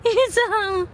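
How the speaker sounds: high laughing reply. Real, not acted. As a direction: laugh through the answer. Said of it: "Mom, what's making you laugh?". (tumatawa si nanay dahil sa kanta ng anak)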